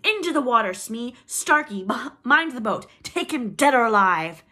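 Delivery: high, very loud urgent commands; shouting orders. A narrator's reading. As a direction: bellow orders to the crew. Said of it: "Hook shouted".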